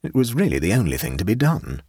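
mild emphasis on "only thing"; with some emphasis. A narrator's reading. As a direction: give "really the only thing" some weight. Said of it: "said Clovis with some emphasis".

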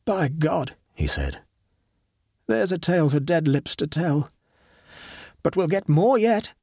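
a hint of awe turning eager; Horton, awed. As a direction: breathe it, then push on.

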